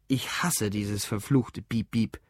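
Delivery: low, slow, restrained hatred; bitter loathing. Acted. Drunk Lou curses his phone's beeping, low and bitter. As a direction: drag it out with weary loathing.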